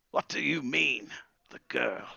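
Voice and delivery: high start falling in disbelief; taken aback. Acted. Wizard hearing the girl accused, taken aback.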